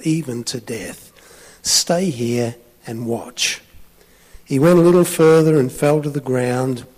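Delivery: emphatic gospel reading from the pulpit; scripture reading. A narrator's reading. Preacher reads Gethsemane to the congregation, emphatic reading. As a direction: read the verse out with weight.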